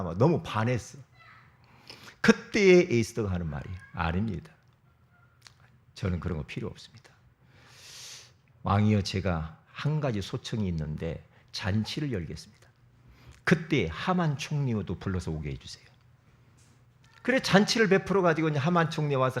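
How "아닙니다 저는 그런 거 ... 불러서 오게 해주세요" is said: lower, softer pleading queen; a queen quietly making her request; humble queen. Acted. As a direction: ask modestly, head bowed. Esther humbly petitions the king.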